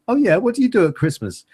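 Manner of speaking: high, squeaky duck-person voice; duck ambassador voice. Pretend. Duck ambassador browsing Facebook photos, high and chirpy. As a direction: play a curious alien duck ambassador.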